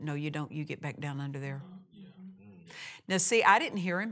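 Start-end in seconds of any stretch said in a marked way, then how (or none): 0.0-1.6 muttered under the breath, much quieter and lower. Retelling what a man said under his breath on hearing he had cancer. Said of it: "I just real quietly under my breath said".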